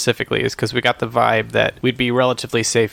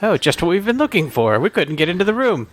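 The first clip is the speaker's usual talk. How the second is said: higher sneering villain voice; mock villain voice; 6 semitones higher than usual. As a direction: gloat like a cult villain. Voicing cultists.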